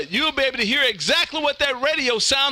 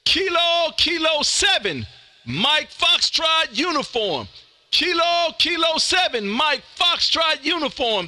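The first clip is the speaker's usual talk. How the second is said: radio call-out; 5 semitones higher, slower than usual. Real, not acted. Calling an unknown station over radio.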